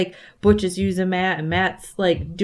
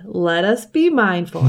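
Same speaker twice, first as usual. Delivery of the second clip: slow, lightly imitated prayer leader; a hint of someone leading prayer; Grady. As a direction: intone it slowly, as a remembered admonition. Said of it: "I can hear Grady's, like, voice in my head".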